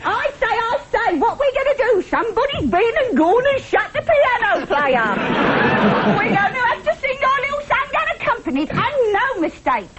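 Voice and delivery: lightly voiced music hall patter; a hint of a music hall comic; old-time music hall. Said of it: "let's try some old-time musical".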